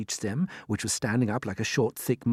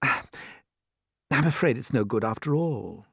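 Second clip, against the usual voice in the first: murmured; much slower than usual. Acted. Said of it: "James murmured".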